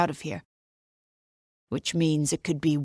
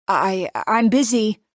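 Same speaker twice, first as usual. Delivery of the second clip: higher, slow, strained Italian-free nervous pitch; abnormally high voice; 4 semitones higher, 5 dB louder, slower than usual. Acted. Nina hiding behind the door, voice pitched high and slow. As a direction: push the voice up to sound casual and fail. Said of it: "I say in an abnormally high voice".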